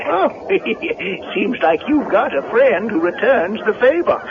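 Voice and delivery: put-on high, rustic old handyman voice; Digger the handyman. Caretaker startled by Linda at the barn door, high rustic voice. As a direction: play a jumpy country caretaker.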